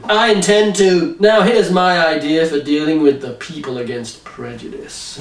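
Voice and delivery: hammed-up recruiter voice; mock villain mentor. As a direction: read a creepy mentor with a laugh. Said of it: "comic book dialogue read out".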